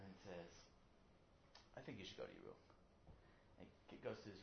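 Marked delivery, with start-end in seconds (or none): 1.8-2.6 very low, quiet order; restrained stern father. Acted. Father sending his child to his room, quiet and restrained. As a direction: send him off in a low hushed voice.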